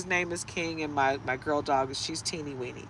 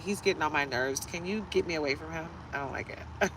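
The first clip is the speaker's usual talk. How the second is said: whiny dog; 7 dB quieter than usual. Retold or imitated. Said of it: "she was back there whining".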